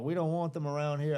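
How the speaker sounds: mock Southern-accented local; lightly mocking Southern accent. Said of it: "give every dumb person a southern accent".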